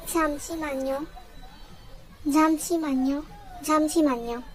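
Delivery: "잠시만요" repeated clearly as jam-shi-man-yo; pronunciation demo. Shown as a demonstration. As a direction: model "잠시만요" with pauses between repeats. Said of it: "teach you how to pronounce it".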